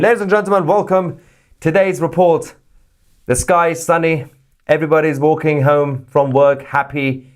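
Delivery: high, chirpy fake-happy newsreader; cheery news anchor. Pretending to open a live report as a beaming anchor. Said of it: "If I start a live report saying".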